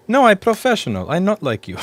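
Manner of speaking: laughing, high and loud; laughing quote. Retold or imitated. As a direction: quote it while cracking up. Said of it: "we almost pissed ourselves laughing".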